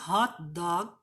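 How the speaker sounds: "Hot dog" with HOT stressed; first word stressed. Shown as a demonstration. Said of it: "o que tá no primeiro composto".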